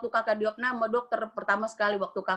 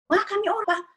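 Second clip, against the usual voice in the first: surprised thought; 9 semitones higher than usual. Retold or imitated. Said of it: "Aku pikir".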